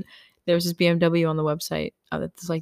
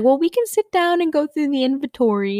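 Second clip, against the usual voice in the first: mock saleswoman; 9 semitones higher than usual. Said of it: "So she was like".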